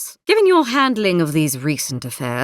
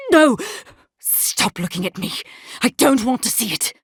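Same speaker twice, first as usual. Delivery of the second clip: a cry of no, then a strained plea; anguished recoil; 4 semitones higher than usual. Acted. Haunted figure begging a vision to stop looking, anguished. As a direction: recoil in dread from what you see.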